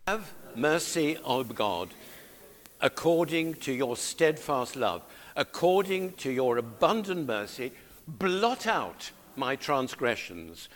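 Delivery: measured, deliberate psalm reading; congregational scripture reading. Acted. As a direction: lead the congregation through the verse, slowly. Leads congregation reading the verse.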